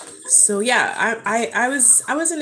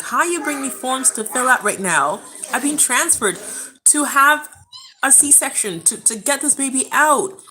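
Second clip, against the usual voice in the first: indignant, emphatic disbelief; retold livid; 3 semitones higher, 3 dB louder than usual. Labouring mother handed forms to fill out, livid. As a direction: relive being outraged at the staff. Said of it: "I was absolutely livid".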